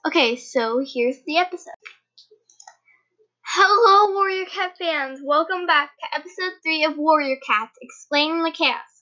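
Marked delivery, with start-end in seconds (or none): 3.5-7.8 big enthusiastic welcome; excited greeting. Acted. Restarts intro in show voice.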